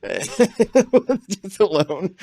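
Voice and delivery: breaking into laughs between words, pitch up high; laughing at himself while telling it; laughing through story. Real, not acted. Telling the director about crying alone, laughing through it.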